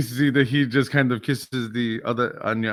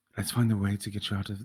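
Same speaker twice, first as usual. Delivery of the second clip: hushed stage whisper, murmured up close; 4 semitones lower, 7 dB quieter than usual. A character leans to a player's ear in a role-play scene, half-whispering in someone's ear. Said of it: "he whispers in your ear".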